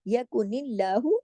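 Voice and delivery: यकुनिल्लाहु slowly with a light ल; thin L. Shown as a demonstration. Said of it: "लाम में मोटा नहीं करना इसको". (यकुनिल्लाहु, लाम बारीक)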